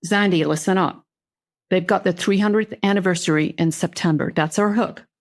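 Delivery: lightly voiced Southern boss; Southern accent. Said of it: "He came out very Southern".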